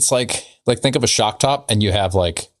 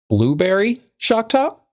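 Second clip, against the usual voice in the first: high silly voice; 11 semitones higher, slower than usual. Acted. High far voice.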